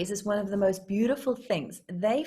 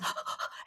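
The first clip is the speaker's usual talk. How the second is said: puppy panting; 9 dB quieter than usual. Acted. Acts out puppy running off.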